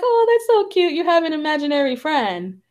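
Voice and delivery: high, sing-song mock mom; a light imitation of a doting mom; mom's cooing voice. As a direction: coo it like an amused mother. Mom dismissing child's story.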